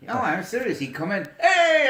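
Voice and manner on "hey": imitating the crowd's loud, high yell; mock scream. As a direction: yell it like a crowd greeting a big shot. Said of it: "Everybody's screaming".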